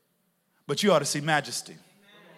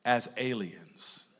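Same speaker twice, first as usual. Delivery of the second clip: quiet, slow pleading; an apostle gently urging his flock, slowed right down; 6 semitones lower, 4 dB quieter, slower than usual. Retold or imitated. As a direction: lean in and beg them softly. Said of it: "you're pleading with them".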